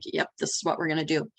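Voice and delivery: retold quick, settled reply; matter-of-fact confirmation. Boss answering her team about the plan, matter-of-fact.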